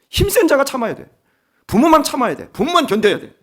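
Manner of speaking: full-force preaching. Acted. Pastor preaching hard to the congregation about parenting, forceful. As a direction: drive the point home from the pulpit.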